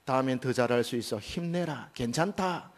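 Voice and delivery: put-on a parent soothing a child who failed; 실패한 자녀를 다정하게 위로하듯; comforting parent. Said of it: "위로해 줍니다".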